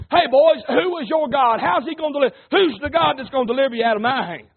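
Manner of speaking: mildly sarcastic, taunting challenge. Acted. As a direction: needle them with a string of questions. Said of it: "might be a little sarcastic with".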